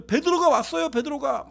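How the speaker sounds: high-pitched, urgent news; excited announcement. Acted. Rhoda runs to tell the disciples.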